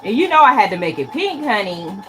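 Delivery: high, loud, playful brag about pink; sassy. Real, not acted. Quilter bragging to viewers about her pink block, sassy. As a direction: flaunt it with sass, honey.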